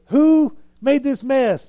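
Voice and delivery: indignant demand. Retold or imitated. Retelling the challenge to Jesus, drawn-out indignant demand. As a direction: demand an answer, dragging the words.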